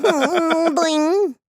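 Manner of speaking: lightly voiced goofy nerd; a hint of cartoon nerd. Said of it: "your nerd voice".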